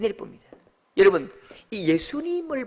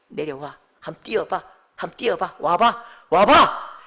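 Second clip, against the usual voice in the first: gentle invitation; 5 semitones lower than usual. Acted. Jesus gently invites Peter.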